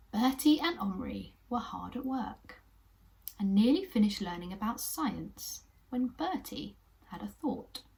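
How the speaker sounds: lively storybook reading; animated children's story narration. Acted. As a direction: read it like a bedtime story to little ones.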